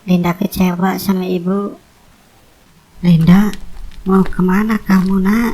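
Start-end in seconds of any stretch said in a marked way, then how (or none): 3.0-5.5 calling after. Acted. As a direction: stop her before she leaves. Mother calls after her leaving daughter.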